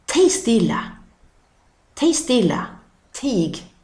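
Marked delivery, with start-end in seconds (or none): 0.1-2.7 Tig stilla with a strong, slightly louder Tig; dialect phrase. Shown as a demonstration. Teacher showing the dialect phrase Tig stilla. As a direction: say Tig stilla firmly, as an old Scanian command. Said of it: "betyder var tyst".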